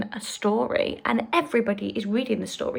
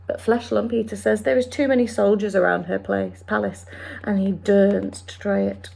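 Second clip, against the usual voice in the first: quick, lightly voiced friendly giant; BFG voice. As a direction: explain it like the big friendly giant. BFG speech.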